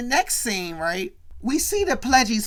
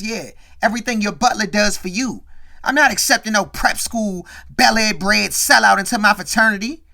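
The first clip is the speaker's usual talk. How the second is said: louder, scornful put-down; building louder as he cuts him down; contemptuous; 6 dB louder than usual. Retold or imitated. Top Dog, shutting Carlton out of the fraternity, louder with scorn.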